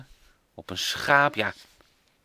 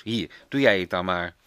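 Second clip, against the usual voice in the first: a touch of grumpy, louder push; mildly annoyed hand-over; a bit cross; 2 semitones lower, 6 dB louder than usual. Acted. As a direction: Bas giving up the pencil in a huff. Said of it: "zegt Bas een beetje boos".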